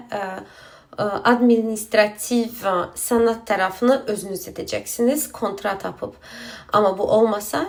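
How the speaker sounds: Azerbaijani speaker struggling through Turkish; halting Turkish with Azerbaijani accent; broken Turkish, foreign accent. Real, not acted. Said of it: "Türkçem çok kötü yani".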